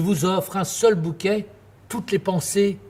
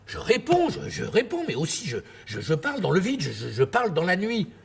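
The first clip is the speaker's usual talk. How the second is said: flustered stammer; 2 semitones higher than usual. Acted.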